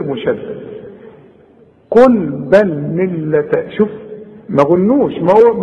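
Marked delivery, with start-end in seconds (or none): 1.9-3.7 قل بل ملة slow, pressing the doubled ل; lean on the doubled letter. Shown as a demonstration. Teacher showing the shadda without ghunna. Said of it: "اتك على الحرف".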